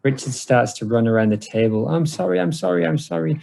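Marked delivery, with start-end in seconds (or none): 1.9-3.4 panicked apology. Retold or imitated. Richard panicking, retold.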